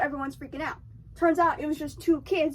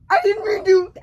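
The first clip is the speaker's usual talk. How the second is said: mock sheepish; 5 semitones higher, 10 dB louder than usual. Hooper apologizes to Quint.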